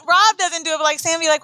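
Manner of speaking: ordinary talk, nothing marked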